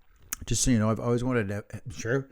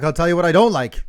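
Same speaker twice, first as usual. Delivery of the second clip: loud, brisk hammed-up New York Jewish mother; New York Jewish accent; 3 semitones higher, 7 dB louder, faster than usual. Host mimicking co-host's mom, loud New York Jewish accent. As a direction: complain fast in a thick New York accent. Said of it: "became like this Jewish woman from".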